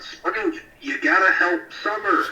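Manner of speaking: high-pitched urgent call; yelling out. Acted. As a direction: call across to an ally for help. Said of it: "I, I yell out".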